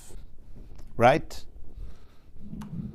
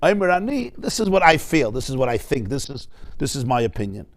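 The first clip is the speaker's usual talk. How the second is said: humble opinion. Shown as a demonstration. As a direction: offer it gently, as just your own view. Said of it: "meaning it's like, "Omer ani".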